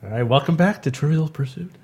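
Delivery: lightly put-on game show host voice. Shown as a demonstration. Co-host auditioning as quiz moderator, mock game show host voice. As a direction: welcome the audience back like a quiz host. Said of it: "game show host voice".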